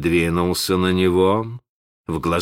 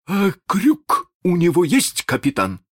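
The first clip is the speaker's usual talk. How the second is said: insolent; 12 semitones higher than usual. Acted. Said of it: "нагло поинтересовался Куксон".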